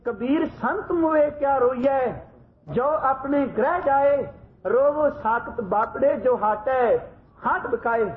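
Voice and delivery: slow, solemn recitation of the verse; grave recitation. Retold or imitated. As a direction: recite it gravely and slowly, like scripture. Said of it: "ਗੰਭੀਰ ਆਵਾਜ਼ ਵਿੱਚ ਪੜ੍ਹਦੇ ਨੇ". (ਗੰਭੀਰ ਆਵਾਜ਼ ਵਿੱਚ ਹੌਲੀ ਹੌਲੀ ਪਾਠ)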